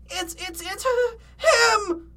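high, halting cartoon fright; frightened stammer. A narrator's reading. Shaggy tells Fred what he saw, frightened stammer. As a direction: stammer it high, building to a cry. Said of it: "Shaggy's screams of fright".

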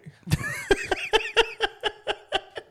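very high repeated squeaks; pretend horn noise. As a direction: squeal out a silly stuttering horn. Demonstrating an invented horn noise.

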